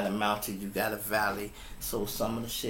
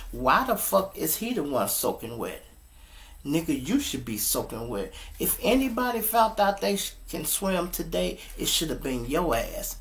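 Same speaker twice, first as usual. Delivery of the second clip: offended wife; 5 semitones higher than usual. Retold or imitated. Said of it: "she gets offended".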